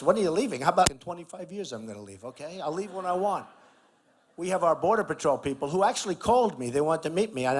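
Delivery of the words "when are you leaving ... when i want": mock defiant migrant. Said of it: "With us, it's".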